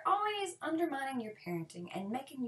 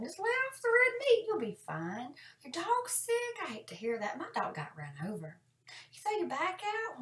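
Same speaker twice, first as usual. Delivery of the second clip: mock cheerful; 4 semitones higher than usual. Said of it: "To which you reply".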